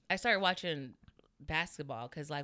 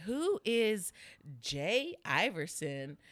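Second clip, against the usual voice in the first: puzzled teacher; 3 semitones higher, much slower than usual. Retold or imitated. Teacher reads unknown name to class.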